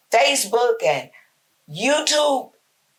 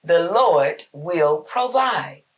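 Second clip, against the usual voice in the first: calm Abraham reply; slower than usual. Acted. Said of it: "Abraham's reply was".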